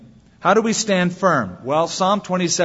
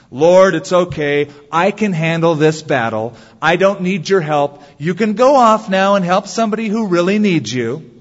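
mock arrogant prayer; 3 semitones higher, 5 dB louder than usual. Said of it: "This is not an arrogant, boastful kind".

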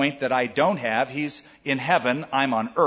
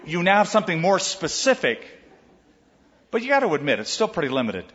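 ordinary talk

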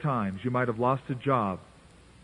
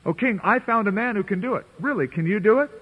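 higher, eager sarcastic back-and-forth; mock exchange; 6 semitones higher than usual. Preacher acting out Arioch and the king, mocking. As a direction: play it as a quick comic skit.

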